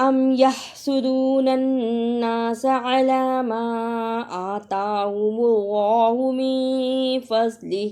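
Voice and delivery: slow melodic tajweed chant; Quran recitation. Acted. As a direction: recite each phrase long and sung. (آہستہ ترنم سے تلاوت)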